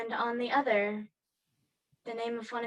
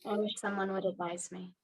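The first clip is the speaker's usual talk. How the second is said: whispering; 3 semitones lower than usual. Acted. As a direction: breathe it as a wistful whisper. Longing aside to herself.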